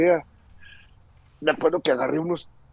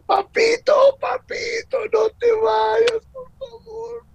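put-on much higher, shouted, slow child's cry; child pleading in tears; 4 dB louder, slower than usual. Son at the wall edge begging his father, sobbing. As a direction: beg like a sobbing nine-year-old. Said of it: "Mi hijo estaba deshecho en llanto".

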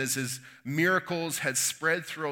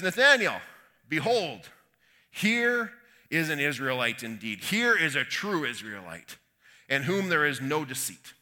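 crying out; 4 dB louder than usual. Acted. Jesus spotting Nathanael on the road, crying out to him. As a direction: call it out, drawing the words out. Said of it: "Jesus cries out to Nathanael".

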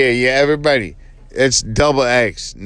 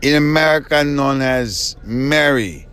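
put-on slow, halting Chinese-accented English; slower than usual. Host posing as Lu Wang Chao known as Mary, mock Chinese accent. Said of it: "now I messed up the accent".

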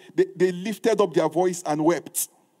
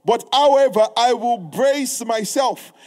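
resolute cry to God; 3 semitones higher, 4 dB louder than usual. Retold or imitated. Preacher modelling right intercession, crying out then bracing. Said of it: "It is that".

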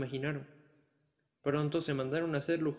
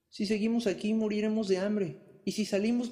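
desperate soldiers; 6 semitones higher, 3 dB louder than usual. Acted. Desperate deserters answer the dragon.

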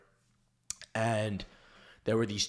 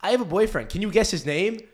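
imitating a little girl, higher and louder; a proud little girl telling her secret, pitched up; 8 semitones higher, 6 dB louder than usual. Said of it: "turns to my girlfriend and says".

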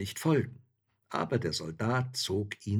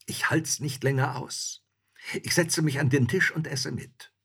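raised, insistent soldier's voice; impatient soldier; 7 semitones higher, 5 dB louder than usual. A narrator's reading. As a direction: soldier at the end of his patience. Hungry soldier figure.

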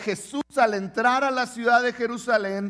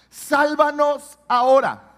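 second take higher and louder; louder plea; 5 semitones higher, 6 dB louder than usual. Shown as a demonstration. Pastor repeating the crowd's plea, louder. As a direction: press the plea harder.

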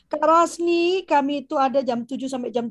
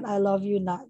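put-on tender to child; 3 semitones lower, slower than usual. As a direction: murmur it like hugging your kid. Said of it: "Dan katakan". (lembut penuh sayang)

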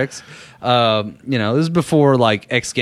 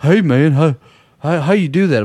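put-on higher, louder country kid voice; country-accented boy, pitched up; little country accent; 4 semitones higher, 4 dB louder than usual. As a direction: imitate a kid with a country twang. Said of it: "he had that little country accent".

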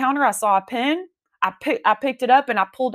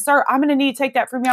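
higher, quick, lightly acted request; EMT; 5 semitones higher, faster than usual. EMT to struggling stroke patient, lightly voiced intervention. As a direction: lightly mimic an EMT stepping in. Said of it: "the E M T says".

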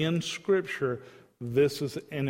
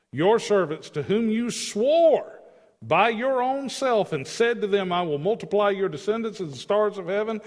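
impassioned plea; 4 semitones higher, 4 dB louder than usual. Acted. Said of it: "listen to this".

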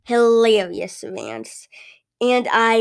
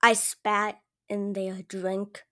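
bitter aside; 3 dB louder, slower than usual. Acted. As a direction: drop the act and grumble. Cashier reveals true feelings.

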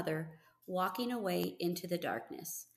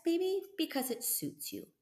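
hushed and fond; whisper; 9 semitones higher than usual. A narrator's reading. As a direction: whisper it to the horse. Albert tenderly to horse.

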